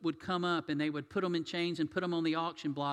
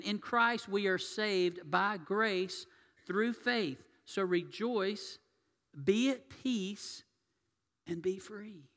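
slow blessing again, pitched higher with more fervour; preacher repeating the blessing higher and stronger; fervent higher repeat; 4 semitones higher, slower than usual. Shown as a demonstration. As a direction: lift the voice and proclaim it with passion. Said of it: "I'm gonna say that again".

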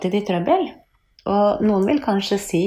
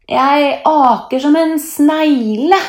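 sighed complaint; 9 semitones higher, 6 dB louder, slower than usual. A narrator's reading. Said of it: "sukker han".

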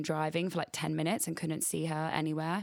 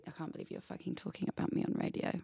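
dog's whisper; 6 dB quieter, faster than usual. Pretend. Voicing her embarrassed dog.

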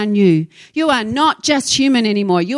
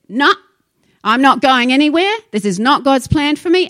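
louder, mildly defiant retold refusal; firm refusal; 3 semitones higher, 5 dB louder than usual. Cancer patient refusing his fate, retold firm refusal. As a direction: put your foot down, retelling his stand.

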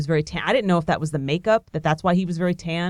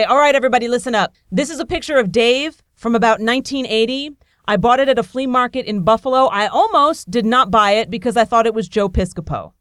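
addressing a crowd; 5 semitones higher, 4 dB louder than usual. Retold or imitated. Addressing the whole theater audience.

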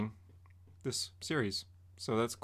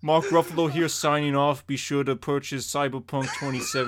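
lightly voiced cheery sign-off with a laugh; Mark Ruffalo impression. Signing off the live video as Mark Ruffalo, a light impression. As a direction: sign off like a chummy celebrity, barely changing voice. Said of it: "this impression".

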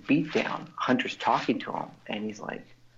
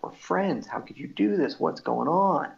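pleading quote; 5 semitones higher than usual. Retold or imitated. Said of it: "He's just like".

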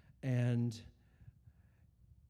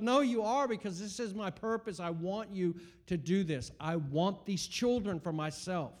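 loud, insistent divine command; God pressing him to the wall, loud firm insistence; 6 semitones higher, 4 dB louder than usual. Retold or imitated. God pressing the father, loud and firm. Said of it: "pressed me to the wall and goes".

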